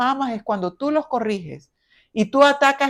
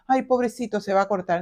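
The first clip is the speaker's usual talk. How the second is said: mock overprotective; 2 semitones lower, 5 dB quieter, faster than usual. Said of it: "no se va a cortar".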